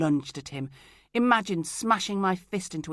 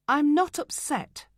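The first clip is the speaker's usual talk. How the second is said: higher, louder, slow with NOT stressed; heated denial; 10 semitones higher, 7 dB louder than usual. Acted. Insisting to Craig, heated and louder. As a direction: deny it through anger.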